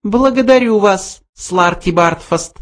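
high voice, coolly cutting him off; cold mouse. A narrator's reading. Mouse cuts off the protesting old man, cold high voice. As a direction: end it coldly in a high mouse voice. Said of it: "холодно отрезал Бенджи".

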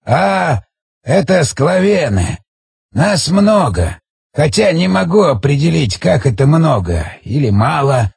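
slow, lightly voiced old man; a hint of an aged storyteller; ancient village elder. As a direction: explain haltingly, drawing words out.

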